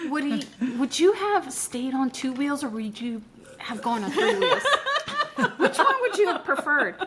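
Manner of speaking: giggling through the words; laughing question. Real, not acted. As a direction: laugh while asking. Joking question to future self.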